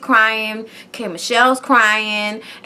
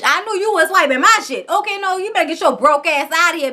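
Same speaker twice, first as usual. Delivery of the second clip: mock outrage; 5 semitones higher than usual. Retold quarrel, kicking her out.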